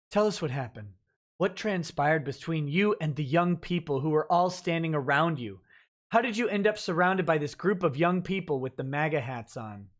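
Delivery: mock news anchor. Streamer reading the CNN interviewer's questions to viewers, in a mild mock anchor tone. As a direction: read it like a TV anchor. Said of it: "This is C N N".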